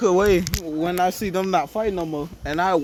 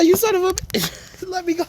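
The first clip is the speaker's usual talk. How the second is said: mock outrage; 10 semitones higher than usual. Dragged by the hair by Henri, hammed-up high yell. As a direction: ham up the yell while being dragged.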